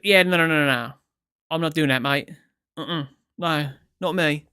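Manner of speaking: hammed-up British bloke saying no; mock dismissive Brit, starting loud; mock British refusal. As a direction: imitate him brushing it off, loud at first. Mock-quoting the British man refusing.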